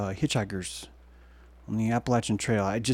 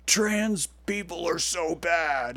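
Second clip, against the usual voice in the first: slow, put-on whiny voice; mock voice of critics; 4 semitones higher, much slower than usual. Mocking people online who hate it, slow and put-on. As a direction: drag it out like a scold. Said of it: "half the people are like".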